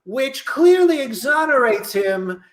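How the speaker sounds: pompous courtroom lawyer. Acted. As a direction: argue like a TV defence attorney.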